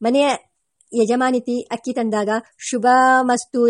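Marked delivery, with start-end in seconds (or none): 2.7-3.7 drawn-out formal benediction; stretched, ceremonious good wish; blessing. A narrator's reading. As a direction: intone it lightly as a priestly blessing. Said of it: "ಎಂದು ಆಶೀರ್ವಾದ ಮಾಡಿ".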